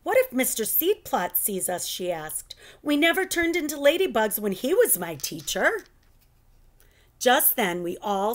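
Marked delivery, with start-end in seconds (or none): 0.0-5.9 raised, anxious voice; girl fretting about her old teacher; nervous. Acted. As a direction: worry aloud. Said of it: "Phoebe began to look nervous".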